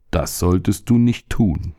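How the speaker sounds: slow, calm stomach voice; stomach calmly warns the boy, slow and even. Acted. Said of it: "sagte der Magen ruhig".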